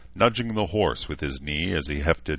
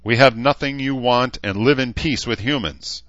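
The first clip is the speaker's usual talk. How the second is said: high, loud battle call across a field; shouted challenge; 7 semitones higher, 7 dB louder than usual. Acted. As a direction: bellow it up at the gate. Knight shouts challenge at orcs.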